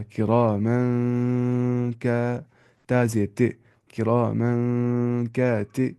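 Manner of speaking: drawn-out chant building the word; slow Quran recitation. Shown as a demonstration. Teacher recites word by word for the class. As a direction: stretch each syllable as in recitation. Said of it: "नाक में आवाज़ को छुपाना है".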